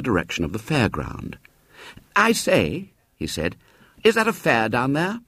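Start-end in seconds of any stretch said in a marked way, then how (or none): 2.1-2.9 put-on boyish voice, pitched higher; a keen schoolboy hailing a stranger; eager boy. Boy stopping William on the road, eager and higher. 4.0-5.2 put-on boyish voice, pitched higher; a keen schoolboy hailing a stranger; eager boy. Boy stopping William on the road, eager and higher.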